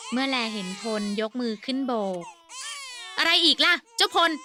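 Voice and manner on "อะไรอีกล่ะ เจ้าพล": curt, irritated question, louder. Acted. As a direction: snap a short annoyed reply. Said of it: "อาเสียพูดห้วนๆ".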